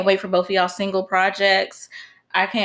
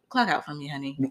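meme quote; 6 semitones lower, 8 dB quieter than usual. Retold or imitated. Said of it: "she's like".

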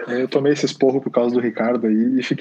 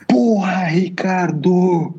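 a fed-up father yelling after the third call; retold shout; 7 semitones higher, much slower than usual. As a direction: bark the first word, then let the name come out as a breathy, drawn-out call. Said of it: "e ele deu um puta grito".

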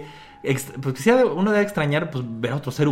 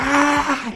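grito retomado; 12 semitones higher than usual. Retold or imitated. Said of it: "que grita".

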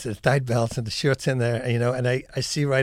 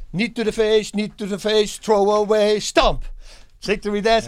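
demo of move calls; 5 semitones higher than usual. Shown as a demonstration. Demonstrates his disco street fighting routine.

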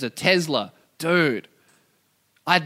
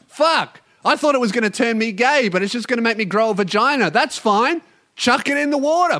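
higher, louder sarcastic mock approval; mock sarcastic rant; 7 semitones higher, 3 dB louder than usual. Podcaster mocking the debunker with sarcastic cheer. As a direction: pretend to cheer the poison on.

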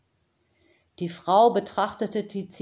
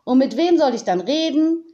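quoting the raven; 6 semitones higher, 6 dB louder than usual. Retold or imitated. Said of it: "Er sagt dann immer".

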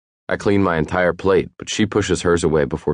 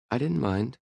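smiling, light and higher; with a smile; 8 semitones higher, 8 dB quieter than usual. Acted. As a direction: say it through a soft smile. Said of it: "she says with a smile".

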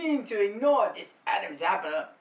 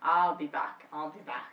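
low attempt at an Austrian action-star accent; Arnold Schwarzenegger; 4 semitones lower than usual. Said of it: "I cannot do this accent".

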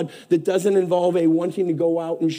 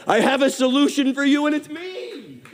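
voice of God; 7 semitones higher than usual. Retold or imitated. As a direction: proclaim it as God speaking love. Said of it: "And he says".

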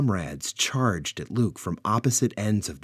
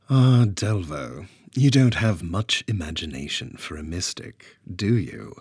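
sarcastic. Acted. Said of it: "Freya asked sarcastically".

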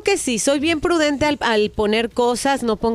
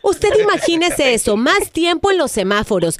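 infomercial; 3 semitones higher than usual. Acted. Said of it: "es una broma telefónica".

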